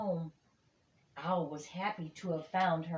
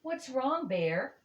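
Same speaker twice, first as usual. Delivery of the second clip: friends asking; 7 semitones higher than usual. Acted. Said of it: "they asked".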